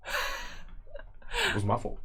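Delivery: very slow whisper, to himself; slow whispered denial. Acted. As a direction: breathe it out slowly, stunned. Berthold muttering to himself.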